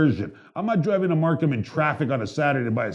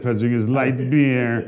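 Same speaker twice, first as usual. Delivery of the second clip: slow, lightly put-on delivery; repeated put-on voice; slower than usual. Shown as a demonstration. Host repeats the line for his cohost, slow and put-on. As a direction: say it slowly again in that voice. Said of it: "Like, like that".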